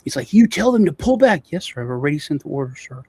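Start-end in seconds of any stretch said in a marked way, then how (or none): 0.3-1.5 loud, high imitation of an irate boss; angry order. Cartel boss ordering the police chief around, imitated angry shout. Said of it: "he's going off, right? Pissed". 1.5-3.0 meek, placating imitation of an underling; massively subservient. Police chief answering the cartel boss, mildly imitated subservience. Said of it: "the tone, this guy was, like, massively subservient".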